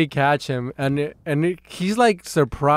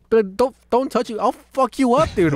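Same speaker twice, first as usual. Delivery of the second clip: retold angry threat; 8 semitones higher than usual. Retells angry threat during confrontation.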